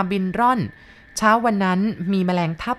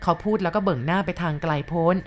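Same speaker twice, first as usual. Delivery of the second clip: ordinary delivery, nothing marked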